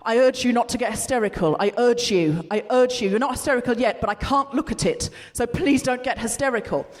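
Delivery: low mock pleading, urging restraint; Philip Hammond. Politician urging the chamber not to get hysterical, lightly mocked. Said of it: "think about Philip Hammond going".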